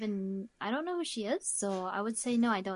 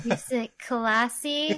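incredulous echo; much slower than usual. Real, not acted. Echoing a surprising word choice.

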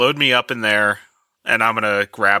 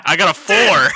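laughing; 13 semitones higher than usual. Real, not acted. Bad roll, table cracks up.

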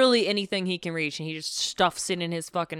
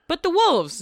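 high, louder whiny objection; whiny protest; 11 semitones higher, 6 dB louder than usual. Retold or imitated. Pate whining to Tybalt about the wolves. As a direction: whine it like a scared child. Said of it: "Pate's like".

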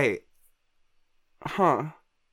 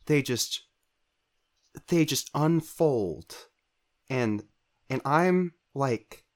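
weary bird voice; 5 dB quieter than usual. Acted. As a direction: sigh it out like a tired raven. Plays the weary bird character.

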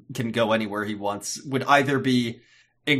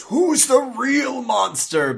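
high, slow, hammed-up monster voice; put-on wailing monster cry; scary monster android; 12 semitones higher, 4 dB louder, slower than usual. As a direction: draw it out in mock accusation. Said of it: "very scary monster android and he goes".

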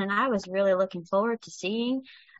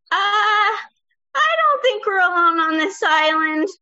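alarmed; 10 semitones higher, 6 dB louder than usual. Acted. Fell into a giant T-Rex footprint.

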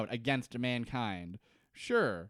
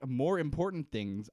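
air quotes. Acted. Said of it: "quote, unquote".

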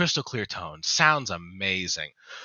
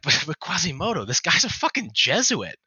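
higher, louder, scandalised protest climbing to a squeal; the bishops balk, voices shooting up; outraged bishops; 9 semitones higher, 3 dB louder than usual. Acted. Bishops protest to Quasimodo, high and loud outrage.

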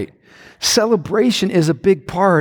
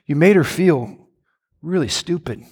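lower, gentle rebuking voice of God; 4 semitones lower than usual. Retold or imitated. God gently rebuking husband, lower calm voice. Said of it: "but when God says".

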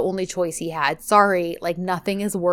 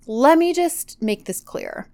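firm ultimatum. Retold or imitated. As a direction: spell out a final break, measured and firm. Retold firm final rejection.

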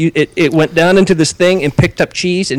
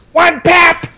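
mock yell; 10 semitones higher than usual. Telling friends how the worker screams the order. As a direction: bark the order like a pizza worker. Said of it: "And he screams it".

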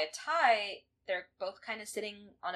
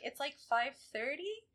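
high, slow, questioning mock reply; puzzled reply; 8 semitones higher, 4 dB quieter, slower than usual. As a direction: imitate a hesitant, baffled answer. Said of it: "And she's like".

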